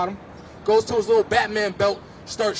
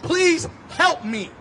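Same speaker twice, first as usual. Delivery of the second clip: pleading; 4 semitones higher than usual. Retold or imitated. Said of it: "I told them".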